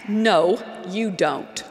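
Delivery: imitating a curt caller's rebuff; retold snap. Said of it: "She snapped".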